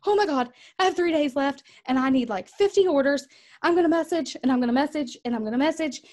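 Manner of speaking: high, loud, fast end-of-month panic; mock panic. Coach voicing a seller panicking at month's end. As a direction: rattle it off in a frenzy. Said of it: "has ever had a panic mode".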